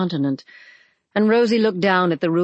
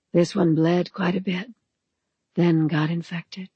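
sweetly husky voice. Acted. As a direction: speak sweetly with a husky rasp. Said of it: "in her sweetly husky voice".

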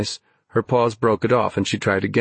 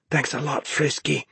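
higher, softer, sour thanks; grimacing sarcasm; 5 semitones higher, 5 dB quieter than usual. A narrator's reading. Ben to the dog that sprayed him, sour sarcasm. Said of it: "he grimaced".

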